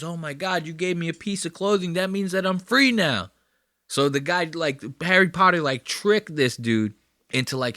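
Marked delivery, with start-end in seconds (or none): 0.0-3.3 Dobby voice. Retold or imitated. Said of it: "Dobby goes".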